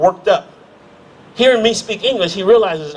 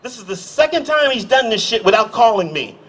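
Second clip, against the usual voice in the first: mock indignant; 3 semitones higher than usual. Defusing the angry stranger with mock outrage about the president. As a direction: brush it off with fake annoyance. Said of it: "I said".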